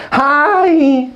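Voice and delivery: high, slow gushing small-talk voice; chatty small talk. Shown as a demonstration. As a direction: gush over the weather like a chatty leasing agent.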